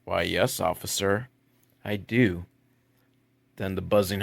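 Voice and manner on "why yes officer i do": seductive woman. Acted. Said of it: "the woman there says".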